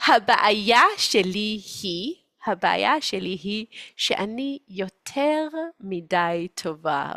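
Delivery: slow, mock martyr lament; self-pitying mother. Mother saying she is too good, self-pitying. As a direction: confess goodness as a slow burden.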